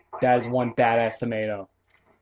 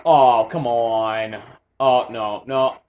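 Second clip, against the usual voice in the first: exasperated; 5 dB louder, much slower than usual. Real, not acted. Annoyed after dying.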